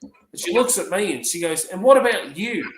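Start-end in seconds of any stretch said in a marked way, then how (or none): 1.6-2.7 put-on high old-lady question; imitated curious resident. Resident turning to her carer, imitated high curious voice.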